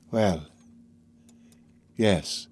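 calm it down, eerily tender; strange gentleness. Acted. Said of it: "with strange gentleness".

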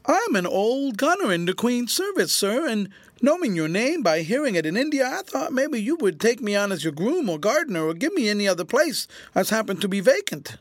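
high, wheedling whine; whining. A narrator's reading. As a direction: plead like a humble beggar. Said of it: "speaking in a whining voice".

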